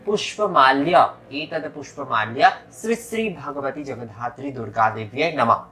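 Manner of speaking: deliberate teaching chant for worshippers; mantra recitation. Shown as a demonstration. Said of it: "अर्पण करते समय आपको बोलना है".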